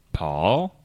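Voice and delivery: mildly scared, rising question. Shown as a demonstration. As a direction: call out with a touch of fear. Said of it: "Paul in a scared voice".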